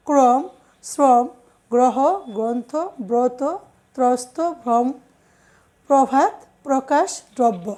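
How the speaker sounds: ক্রম as "krom", শ্রম as "srom", closed o after the r; first vowel as o. Shown as a demonstration. Teacher listing rule examples, first vowel of each like ক্রম said as o. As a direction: round the first vowel to o, as "probhat" for প্রভাত. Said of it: "আদ্য অটাও ওকারের মতো উচ্চারিত হয়".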